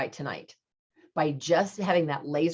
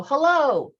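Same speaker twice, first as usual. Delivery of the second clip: echo; 10 semitones higher, 7 dB louder than usual. Retold or imitated. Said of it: "come back like you go".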